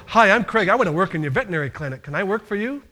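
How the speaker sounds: brisk, clear, eager introduction; confident job applicant. Shown as a demonstration. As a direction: pitch the greeting up and speak out. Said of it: "No, you wanna go".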